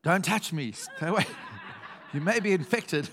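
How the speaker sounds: jokey warning, laughing through it; laughing mock-stern don't touch me; mock Jesus warning. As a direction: tease the congregation with a pandemic joke. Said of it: "And he goes".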